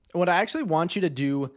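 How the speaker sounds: talking between sips of coffee; words around a sip of coffee; sipping coffee while talking. Real, not acted. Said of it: "sorry, I'm drinking coffee".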